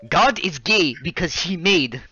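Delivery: imitating a thick Nigerian accent. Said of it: "thick Nigerian accents".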